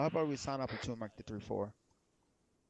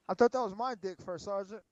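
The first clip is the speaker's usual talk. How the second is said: laughing; 8 semitones higher than usual. Real, not acted. Banter about lifting weights.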